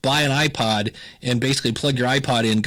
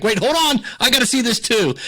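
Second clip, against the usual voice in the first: much higher, eager mock cousins cutting in; 10 semitones higher than usual. Cousins crowding in to see, pitched high and eager. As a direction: play the cousins suddenly curious and higher.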